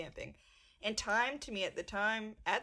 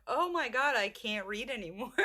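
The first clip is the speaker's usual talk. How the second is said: retold freak-out; 3 semitones higher than usual. Retelling a comic turning unreadable, mock panic. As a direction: play up stoned alarm, half laughing. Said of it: "I start freaking out".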